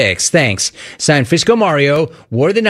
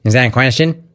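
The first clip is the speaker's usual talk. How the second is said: impression of Rex Lee; faster than usual. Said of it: "Let me go Rex Lee for you".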